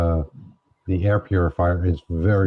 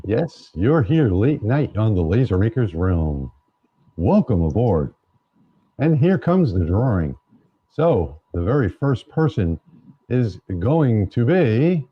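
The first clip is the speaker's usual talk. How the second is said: playful radio DJ with rolling, swooping intonation; late-night DJ voice. Pretend. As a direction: welcome listeners like a late-night radio host. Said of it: "using your late night D J voice".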